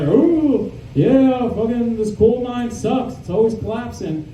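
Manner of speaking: a worn-out animatronic miner moaning; grumpy coal miner. Retold or imitated. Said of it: "he's like".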